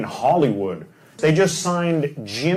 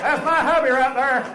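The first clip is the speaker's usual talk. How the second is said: higher, twangy redneck accent imitation; 7 semitones higher than usual. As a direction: echo her in a Southern redneck accent. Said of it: "Can I get a redneck translator".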